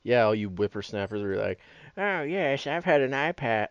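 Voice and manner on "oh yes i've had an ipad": lightly voiced creaky old-timer; a hint of an elderly person. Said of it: "why am I doing it in an old person voice".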